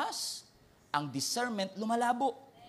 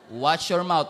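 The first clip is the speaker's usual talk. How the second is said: stern warning; 2 semitones lower, 6 dB louder, slower than usual. Retold or imitated. Believer warns pastor.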